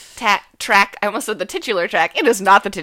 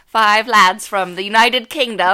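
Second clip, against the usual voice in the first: lightly mocked British boy-band accent, louder; boy-band British accent; 5 dB louder than usual. Host introduces the band's lads in a mock British accent. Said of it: "your boy-band accent".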